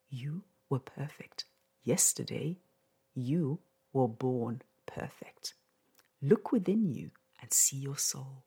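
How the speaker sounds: poem recitation. Acted. Reads her poem aloud.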